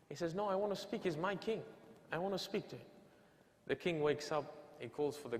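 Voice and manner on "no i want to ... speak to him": higher-pitched, mildly raised retold demand; mock insistent shout. Beggar demanding to meet his king, mild mock shout. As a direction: imitate a stubborn petitioner, pitch lifted. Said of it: "he's screaming and he's shouting".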